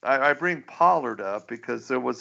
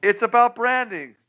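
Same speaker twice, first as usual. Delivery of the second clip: cartoon Pollard voice; 10 semitones higher than usual. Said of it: "he goes".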